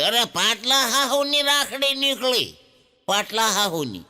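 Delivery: exasperated. Retold or imitated. Old woman complains, rising exasperation.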